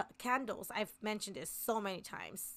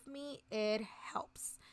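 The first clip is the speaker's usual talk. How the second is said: whispered; much slower than usual. Real, not acted. Reassuring aside to viewers.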